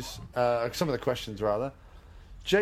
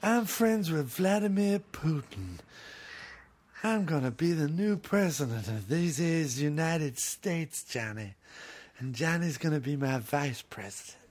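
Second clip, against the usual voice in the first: imitating Steven Seagal; 3 semitones higher than usual. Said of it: "How would Seagal handle".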